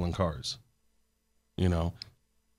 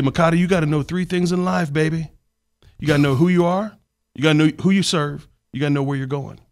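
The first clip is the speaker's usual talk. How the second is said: higher, louder mentor giving life advice; mentor's voice; 6 semitones higher, 5 dB louder than usual. Retold or imitated. Mentor coaching young Makata on life, higher and louder. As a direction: pass on the three things, pitched up. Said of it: "He'd say".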